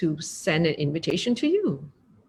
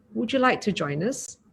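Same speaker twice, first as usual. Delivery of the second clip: soft, kind asking; gentle invitation; 3 dB quieter than usual. Shown as a demonstration. Teacher showing the kind way to invite, soft and friendly. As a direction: invite them in softly. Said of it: "even with those words".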